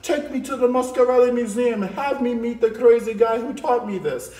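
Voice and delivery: loud, gushing mock student voice; lightly voiced excited child; mock amazed kid. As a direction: play the thrilled kid begging for art supplies. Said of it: "Y'all like".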